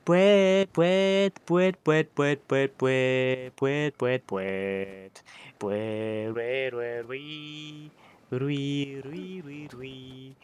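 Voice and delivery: goofy sound-effect nonsense; silly clown. Pretend. Silly noises while sliding.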